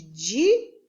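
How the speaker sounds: "dissílaba" broken after a rising di; silabado. Shown as a demonstration. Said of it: "quando a palavra tem duas sílabas". ("dissílaba" com pausa depois do di)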